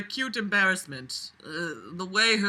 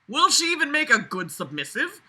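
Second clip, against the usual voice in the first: rising, incredulous mock read; overdone, mocking reading of the book; mock dramatic question; 8 semitones higher than usual. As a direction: sneer at the line as you read it. Mocking the book's inner voice.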